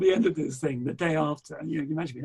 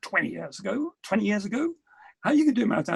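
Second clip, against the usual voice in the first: incredulous; 4 semitones higher, 4 dB louder than usual. Retold or imitated. Wife scolding him.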